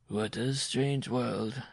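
slow, musing character voice; muttering. A narrator's reading. Papa Copo left alone behind, slow muttering. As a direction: muse it slowly, half to yourself. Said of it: "he muttered".

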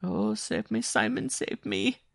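high-pitched pleading wail as the frightened woman; desperate cry. A narrator's reading. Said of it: "Jean-Marie cried".

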